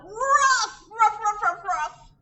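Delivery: high, loud playful woof woof; barking dog. Acted. Bow Wow barks to join the kids at school, high and loud. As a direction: bark like an eager little dog. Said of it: "barked Bow Wow".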